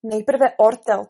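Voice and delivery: slow, loud mocking quote; scornful echo. Alice quotes the queen's silly rule, scornful. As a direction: throw the queen's words back slowly.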